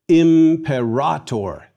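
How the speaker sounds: Imperator slow and loud, im-peh-RAAH-tor; long A. Shown as a demonstration. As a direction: model "Imperator" firmly, stretching the stressed A. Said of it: "Note the long A".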